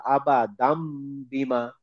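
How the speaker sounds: "আবাদাম বিমা" with the final n turned to a held m; iqlab recitation. Shown as a demonstration. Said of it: "এই জন্য মিমটা দিয়েছে". ("আবাদাম বিমা", তানউইনের নুন মিম করে পড়া)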